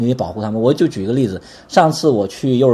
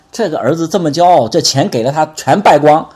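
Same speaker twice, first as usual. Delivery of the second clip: disapproving; 4 semitones higher, 4 dB louder than usual. Retold or imitated. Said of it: "如果我们有些人讲了".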